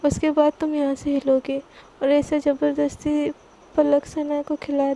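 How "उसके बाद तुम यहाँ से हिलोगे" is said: mild mock anger. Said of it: "एकदम गुस्सा होके बोलती है".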